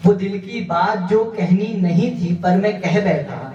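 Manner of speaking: measured mushaira recitation; poetry recital. Acted. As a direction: recite each line of verse to an audience. Recites ghazal couplets to audience.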